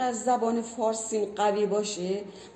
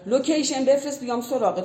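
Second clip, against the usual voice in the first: mocking tone; 4 semitones higher, 3 dB louder than usual. Mocking a slang phrase.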